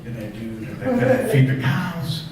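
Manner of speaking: a hushed gasp, then nervous quick questions; mock panicked kid. Boy panicking after his dad calls his name. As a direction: play a kid scrambling to remember chores. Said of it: "I said".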